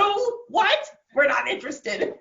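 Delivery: mock brusque secretary, high and loud at first; hammed-up dismissive phone rebuff; gatekeeping secretary. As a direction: play the school bouncer turning away a caller. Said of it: "secretary basically has to be the bouncer".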